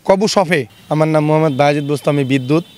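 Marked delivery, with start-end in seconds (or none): 0.1-0.6 word said in reverse; backwards speech. Shown as a demonstration. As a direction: read the word backwards, syllable by syllable. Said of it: "আপনি তো শব্দ উল্টো করে বলতে পারেন".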